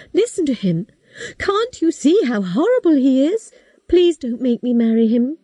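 put-on high, pleading girl on the edge of tears; girl crying to her father, high and breaking; tearful girl. A narrator's reading. Kate begs her father.

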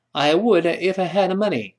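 said straight off, linked together; fast, run-together example sentence; quick spoken chunk. Shown as a demonstration. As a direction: rattle it off as one fluent phrase. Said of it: "我们以后有脱口而出".

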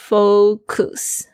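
"focus" said as "foh-koos"; mispronounced second vowel. Shown as a demonstration. Teacher showing a common mistake, "focus" ending in "koos". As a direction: give "focus" a full "oo" in the second syllable. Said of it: "这个字有很多人会念错，会念成".

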